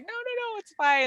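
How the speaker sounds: imitated kind reassurance, starting high; sweet reassurance. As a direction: play her sweetly brushing it off. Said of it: "very sweet".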